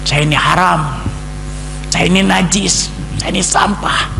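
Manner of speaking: loud, desperate shouting at God; anguished outcry. Retold or imitated. Preacher shouting at God, loud anguished outcry. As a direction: cry out that you are worthless.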